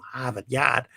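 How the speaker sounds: a hint of Boston accent; lightly attempted Northeastern American. Shown as a demonstration. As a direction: drop the r's like a New Englander. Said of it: "don't really have a northeastern United States accent".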